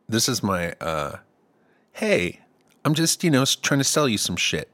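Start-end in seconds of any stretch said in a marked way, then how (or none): 1.9-4.7 higher, lightly hammed-up huckster pitch; mock sales patter with a touch of hustle; salesman voice. Shown as a demonstration. Host showing listeners his selling voice, mock salesman.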